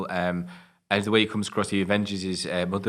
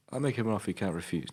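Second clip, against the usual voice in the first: Godfather impression; 6 dB quieter than usual. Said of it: "And he's just like".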